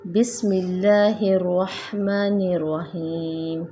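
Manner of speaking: बिस्मिल्लाहिर्रहमानिर्रहीम recited slow with no stretched vowel; short bismillah. Shown as a demonstration. Teacher shows the right Basmala, slow and even. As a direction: keep बिस्मिल्लाह short, then flow on slowly. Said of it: "इसको लंबा नहीं करेंगे".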